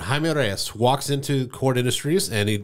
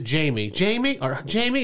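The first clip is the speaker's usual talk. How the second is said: receptionist reading a name; 4 semitones higher than usual. Retold or imitated. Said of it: "she reads it".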